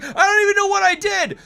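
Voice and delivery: high, loud bewildered squeak; high imitated wife voice. Imitating his wife, baffled at her own win. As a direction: shout it, clueless and proud. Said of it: "And she's like".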